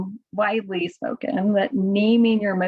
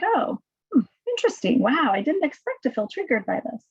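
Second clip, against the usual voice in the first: curious; 2 semitones higher than usual. Shown as a demonstration. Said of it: "when we can be curious about it".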